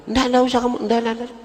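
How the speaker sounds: high, urgent repeated no; frantic refusal. Acted. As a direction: wave it away, desperate. Cleric frantically refuses the widow. (menolak dengan panik dan tinggi)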